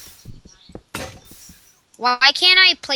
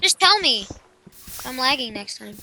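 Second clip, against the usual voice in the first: talking while eating; mouth full; 4 dB quieter than usual. Real, not acted. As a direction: speak around a mouthful of food. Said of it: "I'm eating".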